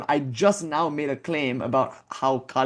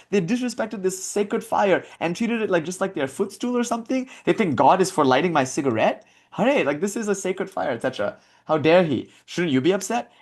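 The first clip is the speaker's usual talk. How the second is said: higher-pitched, mock-offended scolding; retold outrage in a raised pitch; imitated indignation; 5 semitones higher than usual. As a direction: act out an outraged holy man's complaint. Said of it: "he's angry that somebody put".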